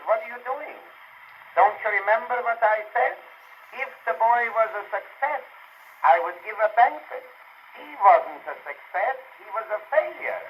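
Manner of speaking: high-pitched, comic indignation; indignant protest. Acted. Father scolds friends feasting after his boy flopped, indignant.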